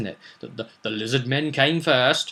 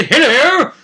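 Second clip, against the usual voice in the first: higher, slow, hammed-up sleazy offer; mock lewd villain; 10 semitones higher, 7 dB louder, slower than usual. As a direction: leer it out slowly, pitched up. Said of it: "gone completely to the canon and said".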